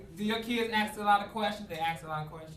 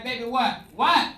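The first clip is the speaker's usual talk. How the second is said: impatient dad; 3 semitones higher, 8 dB louder, slower than usual. Retold or imitated.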